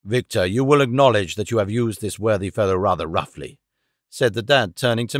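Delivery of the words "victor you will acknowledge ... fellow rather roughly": lower, lightly voiced old father chiding; a hint of a timid old man reproving. A narrator's reading. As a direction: gently scold his son on the servant's behalf. Father rebuking son mildly.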